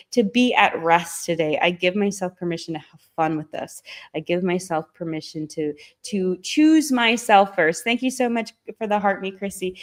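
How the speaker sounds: rhythmic, steady affirmation chant; guided affirmations. Acted. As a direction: recite each permission like a mantra. Continues affirmation list.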